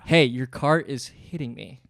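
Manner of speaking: measured and unaggressive, taking it slowly; assertive line read. Shown as a demonstration. Co-host checking the storyteller's line read, calmly assertive. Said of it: "that's the line read?".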